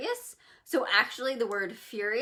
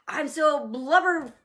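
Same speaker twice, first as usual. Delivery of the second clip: slow, loud, higher goofy drawl; silly made-up word; 6 semitones higher, 7 dB louder, much slower than usual. Shown as a demonstration. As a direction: say the nonsense word like it's ridiculous.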